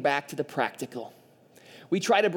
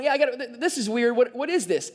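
mock flustered, higher-pitched reaction; startled bystander; 5 semitones higher than usual. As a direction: stumble over words in puzzled alarm. Acts out startled bystander at fire.

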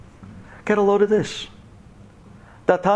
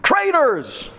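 mock cheering scream; much slower than usual. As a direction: cheer them on like a rowdy fan. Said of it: "they were screaming".

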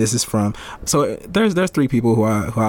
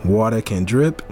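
bad Asian accent. Host reading Bruce Lee quote in a mock Asian accent. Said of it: "That accent was terrible".

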